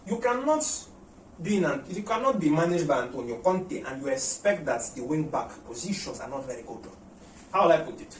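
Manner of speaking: half-hearted mock Italian accent, slowed a little; a light, badly faked Italian accent; fake Italian accent. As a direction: try on a hammy Italian accent for Conte, only lightly. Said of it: "a fake Italian accent".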